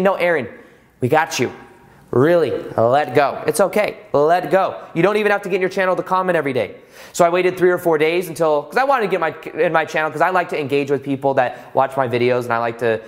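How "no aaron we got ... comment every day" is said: gentle reassuring voice of the universe, mostly the speaker's own; lightly voiced universe telling him to let go; calm universe voice. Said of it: "The universe is saying".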